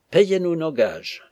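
slow, high, insistent demand; emphatic repeated demand. A narrator's reading. Lackey driving home his wage demand, emphatic. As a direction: drag out each word to drive it home.

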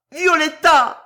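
the name torn out at full force; climbing scream. A narrator's reading. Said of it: "hurla-t-il dans un cri terrible".

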